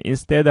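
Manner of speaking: instead broken after the s, with a full Korean t; slow, split instead as 인스-테드; wrong pronunciation. Shown as a demonstration. Teacher showing learners what to avoid, instead split slowly into Korean syllables. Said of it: "instead가 아니고".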